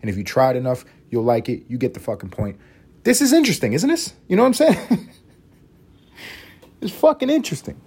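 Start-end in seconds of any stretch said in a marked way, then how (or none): 3.0-7.8 much higher, louder put-on voice; mock intellectual. Marveling at Taino words in a silly high voice. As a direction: squeal it like a giddy professor. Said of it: "high mock voice".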